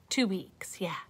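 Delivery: hushed, breathy repeat of the news; whispered dismay. Acted. Caterpillar whispers the bad news to himself. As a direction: whisper it to yourself in disbelief.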